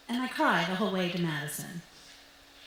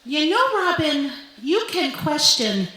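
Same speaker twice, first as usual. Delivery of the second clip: pleading mom; 2 semitones higher, 6 dB louder than usual. Retold or imitated. Mom pushes back hopefully.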